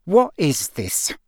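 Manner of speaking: slow, growled demand; angry growl. A narrator's reading. Uncle rounds on nephew, growling. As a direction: growl it out slowly, word by word. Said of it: "growled Uncle Vernon".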